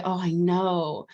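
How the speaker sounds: gentle soothing parent voice; a tender parent talking to a child; soothing inner child. Shown as a demonstration. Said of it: "They need us to come to them and say".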